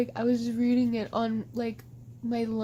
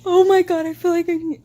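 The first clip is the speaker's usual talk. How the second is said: loud, high burst of disgust; grossed-out outburst; 5 semitones higher, 11 dB louder than usual. Retold or imitated. Retelling her horror at a bookmarked ship, loud outburst. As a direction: blurt it out, horrified. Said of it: "and I was like".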